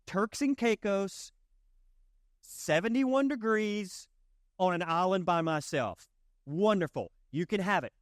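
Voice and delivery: high, slow, dreamy island bliss; dreamy vacationer. Retold or imitated. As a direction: drift off like you're lying on the beach. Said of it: "you're like".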